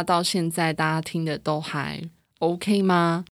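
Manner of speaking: breathy and a bit winded behind a mask; through a face mask. Real, not acted. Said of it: "今天戴着口罩录音确实会比较喘".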